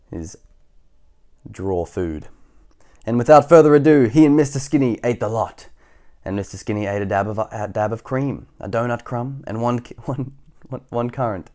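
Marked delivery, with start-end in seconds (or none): 3.1-11.5 bold start, settling into measured listing; story narration. A narrator's reading. Reader telling who ate what, storybook narration. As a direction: announce the feast, then count the morsels.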